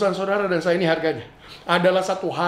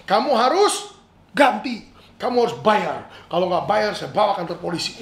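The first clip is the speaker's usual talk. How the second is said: demanding owner; 2 semitones higher than usual. Acted. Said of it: "ujung-ujungnya dibilang".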